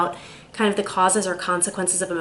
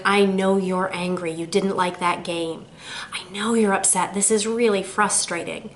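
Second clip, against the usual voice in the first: empathetic. Shown as a demonstration. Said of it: "Empathy is validating your child's emotions".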